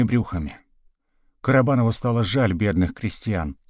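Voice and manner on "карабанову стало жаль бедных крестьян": ordinary delivery, nothing marked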